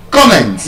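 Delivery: "Comment" as COM-ment; first-syllable stress. Shown as a demonstration. Teacher correcting the class, first-syllable stress on "Comment". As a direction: hit COM in "Comment", let -ment drop. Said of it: "So it is comment".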